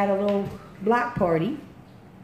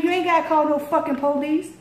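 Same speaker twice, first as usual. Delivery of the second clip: angry yell; 8 semitones higher than usual. Retold or imitated. Dealer yelling at her.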